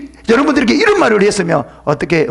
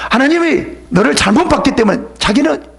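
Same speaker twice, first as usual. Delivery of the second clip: mock sarcasm; 8 semitones higher than usual. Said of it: "비꼬는 식으로 말해요".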